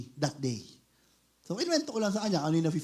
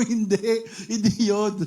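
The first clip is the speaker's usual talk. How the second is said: emphatic denial; 4 semitones higher, 5 dB louder, slower than usual. Retold or imitated. Retold denial to husband, emphatic.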